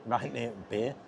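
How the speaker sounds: chuckling through the words; amused little laugh. Real, not acted. Laughs at own slip.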